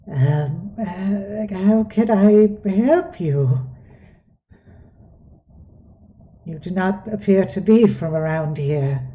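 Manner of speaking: a frail elder asking gently; quavering old goblin. Acted. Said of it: "in a somewhat quavering voice".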